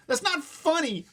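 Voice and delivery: high, loud and slow; insisting. A narrator's reading. Mother insisting to the amused attendant. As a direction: insist it is no joke. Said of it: "my mom insisted".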